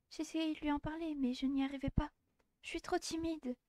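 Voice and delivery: a bashful schoolgirl in a tiny high voice; shy girl voice. Acted. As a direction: confess it barely daring to speak. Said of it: "J'ai enfin retrouvé sa voix".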